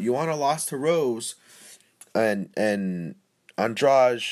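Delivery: slow, foggy stoned delivery; losing the thread, slowed down. Real, not acted. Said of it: "I'm stoned right now. Sorry if my voice is slowing down".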